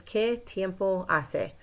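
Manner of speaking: slow teacher model of "¿Qué tiempo hace?"; slow Spanish model phrase. Shown as a demonstration. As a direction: say "¿Qué tiempo hace?" slowly, clearly, for learners. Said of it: "you'll notice that across the top it says".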